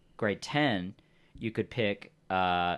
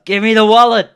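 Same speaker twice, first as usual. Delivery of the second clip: full-force high yell; sudden huge in-character shout; 11 semitones higher, 18 dB louder than usual. Acted. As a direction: scream the demand, loud enough to clip. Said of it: "Jonah shouts".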